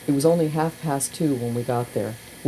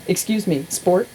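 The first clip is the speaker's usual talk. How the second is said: high, fast mock-formal announcement; announcing; 9 semitones higher than usual. Katz addresses the whole shelter, high and mock-grand. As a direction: play the grand host calling the room. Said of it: "he announced".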